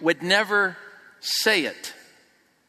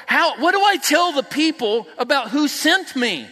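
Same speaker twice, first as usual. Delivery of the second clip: 1 anxious Moses; 5 semitones higher than usual. Retold or imitated. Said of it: "Moses says to God".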